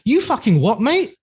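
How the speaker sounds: high, incredulous Cockney dad; Jason Statham-style Cockney. Retold or imitated. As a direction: imitate a Cockney father challenging his son. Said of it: "He speaks like Jason Statham".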